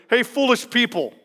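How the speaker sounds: amused, half-laughing rebuke; laughing mock greeting. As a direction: tease them with the insult. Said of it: "Imagine if my first letter".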